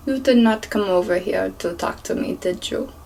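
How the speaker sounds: lightly imitated Jamaican accent; attempted Jamaican accent. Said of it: "try my best to do this accent".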